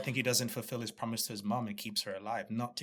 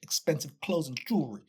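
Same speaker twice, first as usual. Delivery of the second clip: Oz promising his mother; 6 semitones higher, 5 dB louder than usual. Retold or imitated. Continues Oz's promise quote.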